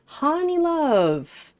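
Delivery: lightly voiced gushing friend, drawn out; Evie's gushing style. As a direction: coo it like an adoring friend. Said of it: "the way Evie types is exactly how she speaks".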